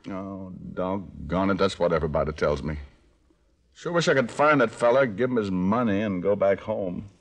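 put-on Arkansas country accent; country hick act. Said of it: "How about a Swedish dialect?".

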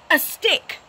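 loud, high barking dog. A narrator's reading. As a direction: bark it out like a dog. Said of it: "barks the dog".

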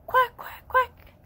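high, loud duck quacks; happy duck quacking. Acted. Ducky showing children how happy sounds, high quacking. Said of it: "When I'm feeling happy, I say".

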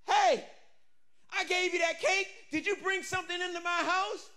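high, accusing shout; angry widow. Acted. Widow to Elijah, an accusing high shout. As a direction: confront him about her son.

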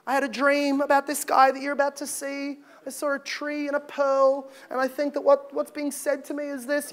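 a hint of an auntie softly recounting her dream. Auntie telling of her dream, lightly imitated. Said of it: "We've all got that auntie".

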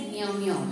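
soft imitated cat meow. Shown as a demonstration. Teacher shows children what a cat says, light meow. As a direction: lightly imitate a cat's meowing. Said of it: "Cat says".

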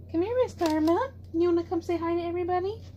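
high, sing-song pet voice; talking to the cat. Real, not acted. Coaxing her cat over.

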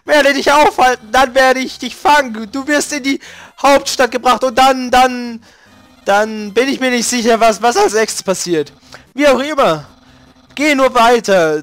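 lightly voiced boastful skeleton; pompous Papyrus. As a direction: bluster like a self-important skeleton. Papyrus threatens the human.

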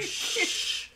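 whispered shush. Pretend.

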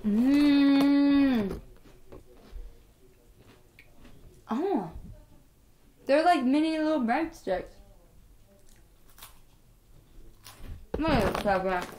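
talking between bites of snack; while chewing. Real, not acted. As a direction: mouth partly full of food. Seen 2: Holds breadstick, mouth working as if chewing, bites again ~2.8s.

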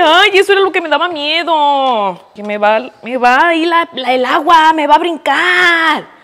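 high, loud frightened squeal; startled panic. Real, not acted. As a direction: yelp as the hot water jumps. Boiling water splashing her. (chillido asustado por el agua que brinca)

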